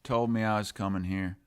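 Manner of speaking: lightly put-on Southern accent; botched Australian, coming out Southern; accidental Southern accent. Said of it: "I'm talking in a Southern accent now instead of an Australian".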